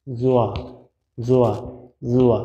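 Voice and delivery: জোয়া said with the mouth lightly rounded; pronunciation demo. Shown as a demonstration. Teacher modelling জোয়া for learners, lightly rounded. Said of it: "একটু মুখটা হালকা গোল হবে".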